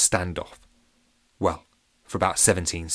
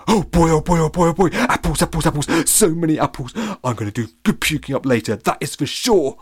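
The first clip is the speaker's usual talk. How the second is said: high, loud, giddy dog voice; excited puppy; 8 semitones higher, 5 dB louder than usual. Acted. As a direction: pant it out like a dog that found a feast. The slobber pup's excited thoughts.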